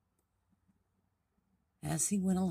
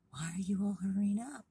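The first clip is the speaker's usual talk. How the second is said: higher, louder storybook question; puzzled little frog; 7 semitones higher, 5 dB louder than usual. Acted. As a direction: call out the question in a raised frog voice. Frog questions the hurrying animals.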